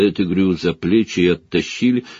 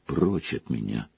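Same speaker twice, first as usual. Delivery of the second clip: angry outburst; 10 semitones lower, 9 dB quieter than usual. Acted. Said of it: "гневно выпалил Гарри".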